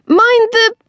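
high, loud cry of warning; horrified call. A narrator's reading. Erin warning Tilly before she hits the car, horrified. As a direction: call out in horror, cut off. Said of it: "Erin call out in horror".

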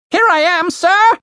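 very high, chirpy British bird; eager little servant bird, high; Ravenous the bird. Acted. Bird answering master Julian, chirpy high.

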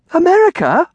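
very high, loud shocked question; horrified. A narrator's reading. Girl learns she must leave London, horrified. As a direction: echo it in childlike horror. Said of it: "Amelia breathed in horror".

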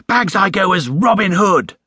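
put-on high, eager boyish claim; excited exclamation. A narrator's reading. Boy claiming his fancy-dress costume, excitedly exclaimed. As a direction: pipe up keenly to bag it first. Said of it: "exclaimed Jonathan".

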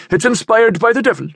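high, loud denunciation; outraged cry. A narrator's reading. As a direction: cry out against the devil's work. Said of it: "he cried".

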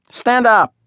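put-on a high bossy street boy; bossy order. A narrator's reading. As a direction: order the runt to his feet.

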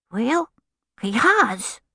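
put-on high child's voice, standing his ground; insistent little boy. A narrator's reading. Little boy answers his scolding parents, high and insistent. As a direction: protest as a small boy.

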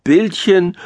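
high, thin, scornful little voice; thin-voiced mole. A narrator's reading. Mole objects to the pictures, thin high voice. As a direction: question it in a small squeaky voice. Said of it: "mit seiner dünnen Stimme".

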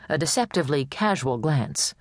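plain reading voice

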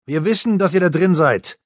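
voiced policeman calling through a door, high and muffled; a cop banging and demanding entry. A narrator's reading. Policeman outside shouts at the children to open up.

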